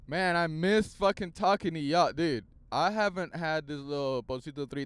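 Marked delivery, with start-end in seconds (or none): none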